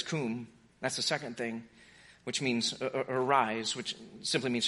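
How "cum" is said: low and soft, gentle; hushed wake-up word; soft command. Retold or imitated. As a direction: tenderly bid her rise. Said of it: "Then he says".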